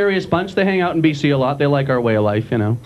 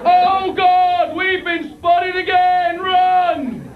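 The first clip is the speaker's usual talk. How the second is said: much higher, drawn-out Australian voice; loud Aussie criminal whisper; 12 semitones higher, much slower than usual. Retold or imitated. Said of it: "with a voice like that".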